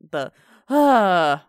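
loud wordless "uh" in imitation; brief put-on grunt; imitated character noise. Shown as a demonstration. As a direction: mimic a game hero's vocal noise. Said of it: "noise once in a while".

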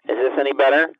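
booming right on the mic; too close to mic. Acted. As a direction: lips pressed against the microphone. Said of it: "You're too close".

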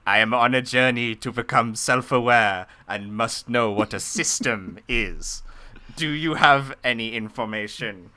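stiff robot asking for help. Acted. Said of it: "I'm gonna stop doing that voice now".

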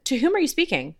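a hint of prim formality; stiff formal wording. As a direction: play the overly correct speaker. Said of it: "I would not say to my husband".

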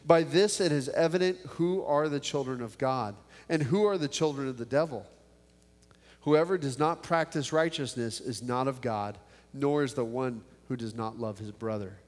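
measured Bible reading voice; scripture reading. Acted. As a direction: read the verses with steady weight. Reads scripture before the prayer.

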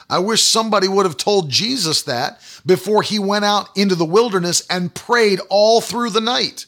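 normal talking voice

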